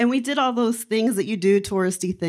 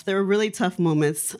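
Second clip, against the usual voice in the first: ordinary talk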